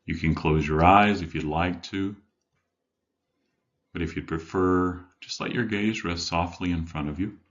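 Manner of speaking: measured meditation guide with long pauses; guided meditation. Acted. Life coach leading listeners to settle in, guided meditation. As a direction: guide them gently inward, leaving room between phrases.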